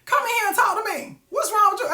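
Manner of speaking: coaxing a broken car. Retold or imitated. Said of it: "That's all it used to do".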